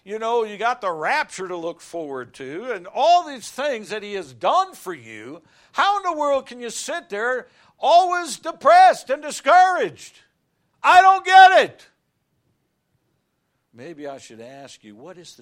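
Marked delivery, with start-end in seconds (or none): 2.7-11.9 builds to a high, loud exasperated cry; preaching at full force. Real, not acted. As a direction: climb to a shouting peak.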